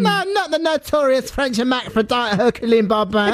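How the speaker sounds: high squeaky sped-up voice; the speaker's sped-up voice. Acted. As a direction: pitch it way up like the speaker. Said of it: "That's Camille's speeded up voice".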